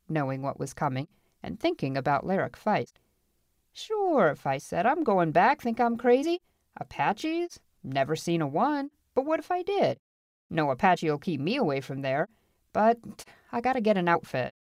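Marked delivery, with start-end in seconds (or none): 3.7-4.3 high, breezy assurance; cocky gold finder. Acted. Feist assures the townsmen, cocky. 4.9-14.5 swinging high on the questions, full of bravado; brash adventurer dismissing the danger; cocky gold finder. Acted. Feist scoffs at the Apache threat, cocky.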